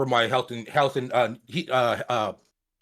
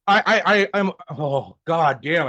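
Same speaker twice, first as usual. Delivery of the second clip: choking on a swallow; sputtering after swallowing wrong. Real, not acted. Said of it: "I just swallowed that wrong".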